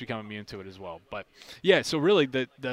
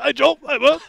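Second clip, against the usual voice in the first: excited greeting; 15 dB louder than usual. Retold or imitated. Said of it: "it's like".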